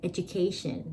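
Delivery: education said clearly as a model; model pronunciation. Shown as a demonstration. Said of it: "stress อยู่ตรงที่".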